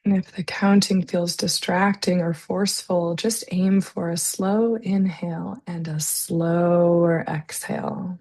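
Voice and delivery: calm, unhurried breathing guidance with long pauses; guided meditation. Real, not acted. Leads slow breathing exercise.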